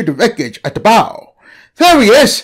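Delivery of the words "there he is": high, loud alarmed shout; cried out. Acted. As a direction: yell the warning, pointing it out. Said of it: "he cried".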